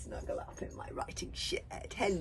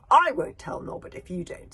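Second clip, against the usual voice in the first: Kamikaze's line; 7 semitones higher, 12 dB louder than usual. Acted. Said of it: "said Kamikaze".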